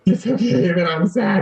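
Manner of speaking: high, strained voice imitating the verge of tears; retold near-sobbing. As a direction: force out the self-comfort just before breaking down. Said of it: "like, sobbing".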